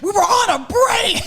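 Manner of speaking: shouted Ross impression; Friends quote. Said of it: "like Jennifer Aniston".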